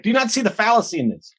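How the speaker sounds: exasperated teacher, pitched well up; berating teacher. Retold or imitated. Teacher scolds her class about jobs and cars, exasperated and pitched high. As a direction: scold them for the obvious. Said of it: "used to kind of berate us".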